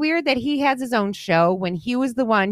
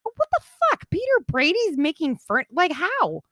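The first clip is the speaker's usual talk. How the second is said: retold shock; 7 semitones higher than usual. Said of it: "I was like".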